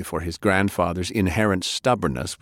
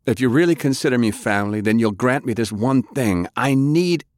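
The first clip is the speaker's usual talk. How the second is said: urgent; 5 semitones higher, 3 dB louder than usual. Acted. Francis pleads urgently.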